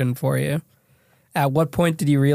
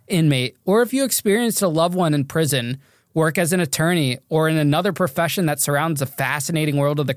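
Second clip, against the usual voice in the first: scripted, upbeat show introduction; podcast intro read. Acted. Host introducing his dad on the anniversary episode, scripted intro read. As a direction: read it out as a host's welcome to listeners.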